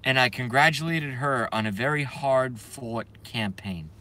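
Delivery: a mild Trump impression with New York vowels; an understated New York accent. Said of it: "New York accent".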